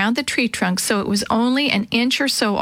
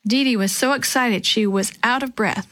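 ordinary delivery, nothing marked

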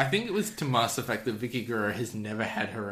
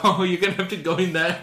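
higher, louder, fast and giddy; gleeful Big Show; 8 semitones higher, 6 dB louder, faster than usual. Retold or imitated. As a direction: rush it out like a delighted giant. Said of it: "Big Show's like".

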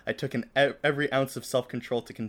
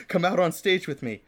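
higher, louder, eager invitation; excited; 7 semitones higher, 6 dB louder than usual. A narrator's reading. Pop star inviting fan on stage, acted excitement. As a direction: burst out with a bright idea. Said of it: "He turned to me excitedly".

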